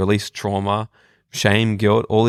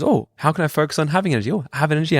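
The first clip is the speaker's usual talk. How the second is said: brain perking up; 5 semitones higher, faster than usual. Retold or imitated. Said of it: "our brain goes".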